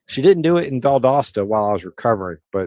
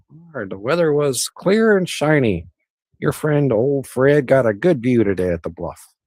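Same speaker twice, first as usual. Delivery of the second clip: higher, lightly put-on virtual assistant voice; Google voice reply; 4 semitones higher than usual. Answering his own weather search in a mock Google voice. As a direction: play the phone assistant answering, a touch higher. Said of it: "I don't think it quite sounds like that".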